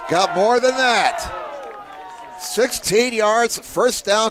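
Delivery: rising roar over the long gain; excited play call. Real, not acted. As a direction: ride the run like a big game-changing play. Big first down run call.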